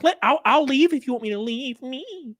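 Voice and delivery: high-pitched pleading imitation; mock meltdown. Imitating the man who wants to leave, mock meltdown. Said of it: "that guy melted a little bit".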